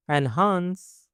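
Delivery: slow teaching repeat of एनहांस; drawn-out repeat. Shown as a demonstration. Word model, then drawn-out repeat.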